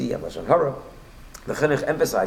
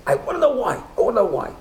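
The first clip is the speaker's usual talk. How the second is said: a much higher, louder, raging cry of grief; half crying, half screaming; 13 semitones higher, 6 dB louder than usual. Retold or imitated. Grieving man bursts in at midnight, demanding of the rabbi, raging half sob. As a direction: demand it in anguish, close to tears and yelling. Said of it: "half crying, half screaming, in a rage".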